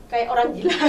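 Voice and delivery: said through a laugh; amused laughing. Real, not acted. Speaker laughs at her shouting on the road, amused. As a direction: laugh at your own craziness.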